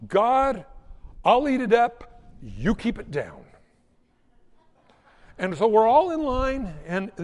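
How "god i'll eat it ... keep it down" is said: hammed-up grace before a bad meal; missionary prayer. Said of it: "the missionary prayer".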